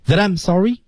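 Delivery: "That I'm" run together as one word, pitched high; linked sounds. Shown as a demonstration. Teacher shows learners "That I'm" in linking, joined up. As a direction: glide from THAT straight into I'M. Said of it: "连读".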